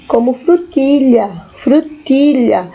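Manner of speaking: frutilha with ll like lh, slowly; Spanish frutilla. Shown as a demonstration. Teacher modelling frutilla for the class. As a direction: say frutilha slowly, double L as Portuguese lh. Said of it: "esses dois L's aqui tem o som de L H".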